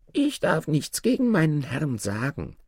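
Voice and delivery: high-pitched dwarf voice. Acted. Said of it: "sagte der Zwerg". (hohe Zwergenstimme)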